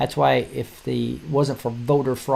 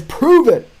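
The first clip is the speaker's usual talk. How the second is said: high, louder mock demand; mock challenge; 12 semitones higher, 8 dB louder than usual. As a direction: bark a hammed-up challenge. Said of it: "And the guy says".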